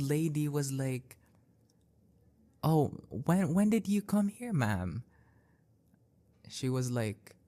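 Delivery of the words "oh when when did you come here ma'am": caring. Retold or imitated. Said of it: "she said that in, like, the most caring way possible".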